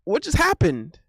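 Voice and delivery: rattling off his confusion; retold confusion. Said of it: "I was like".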